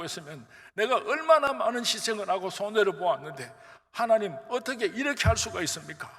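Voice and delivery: arguing with God. Retold or imitated. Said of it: "하나님하고 한판 싸움이 붙었어요".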